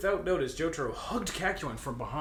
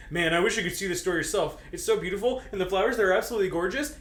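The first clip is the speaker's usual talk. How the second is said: with delight; 4 semitones higher, 4 dB louder, faster than usual. Acted. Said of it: "Kakyoin said with delight".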